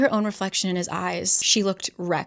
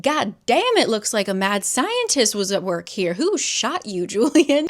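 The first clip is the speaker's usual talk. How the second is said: shocked exclamation; 4 dB louder than usual. Retold or imitated. Livy flinging the car door open, loud and shocked. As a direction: burst in shocked at the bloody scene.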